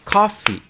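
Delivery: "Coffee" in two clear beats, high then falling; high, careful two-syllable "Coffee"; syllable counting. Shown as a demonstration. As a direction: count out "Coffee" as COF-fee. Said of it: "how many syllables does coffee have".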